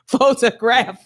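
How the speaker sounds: put-on hammy Spanish accent; mock Spanish accent. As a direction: play a Spanish-accented photographer. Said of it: "speaking Spanish and taking pictures".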